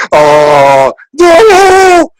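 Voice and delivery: high shrieking protest; mock shriek. Acted cry of a hugged person.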